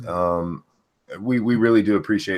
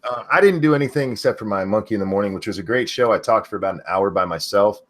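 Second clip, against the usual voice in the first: hoarse voice; faster than usual. Real, not acted. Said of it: "probably why my voice is doing this".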